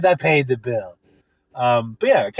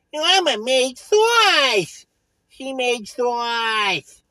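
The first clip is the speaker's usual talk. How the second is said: mock proud shout; 6 semitones higher, much slower than usual. Drawn-out shout.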